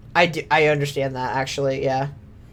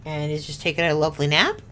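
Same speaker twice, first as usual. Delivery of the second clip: much softer, fond murmuring; soft dog talk; 2 semitones lower, 7 dB quieter than usual. Real, not acted. Owner murmuring about her sleeping dog Mushu, soft and fond.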